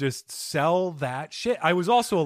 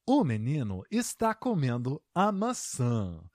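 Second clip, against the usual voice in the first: robot voice; 2 semitones lower, 5 dB quieter than usual. Retold or imitated. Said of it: "you sound a little bit like a robot".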